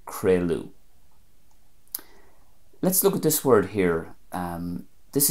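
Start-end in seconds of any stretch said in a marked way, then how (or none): 0.1-0.7 "crealú" as KRAY-loo; Ulster pronunciation. Shown as a demonstration. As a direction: say "crealú" ending on a U sound. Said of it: "And Ulster".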